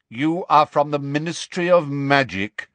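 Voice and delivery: lightly voiced stern centaur; confronting centaur. A narrator's reading. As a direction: put it to them as an accusation.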